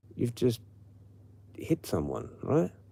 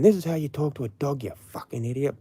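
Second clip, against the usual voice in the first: burly sailor; 5 semitones higher than usual. Acted. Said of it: "burly sailor guy".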